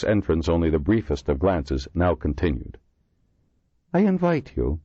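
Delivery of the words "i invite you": pleasant. A narrator's reading. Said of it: "he said pleasantly".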